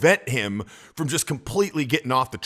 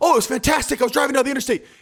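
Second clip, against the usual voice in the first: worked up, overexcited, much higher and faster; 4 semitones lower, 6 dB quieter than usual. Showing how an over-eager answer to a calm, friendly question sounds out of place, worked up. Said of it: "talking to you nice and calm".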